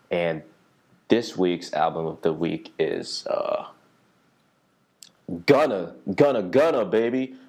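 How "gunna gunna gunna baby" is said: loud, high hype call; hype shout. Real, not acted. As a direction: shout the artist name like a hype man. Hyping the album of the week.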